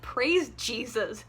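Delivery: slow sarcastic thanksgiving; mock relieved praise. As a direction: drag it out sarcastically. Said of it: "And I was like".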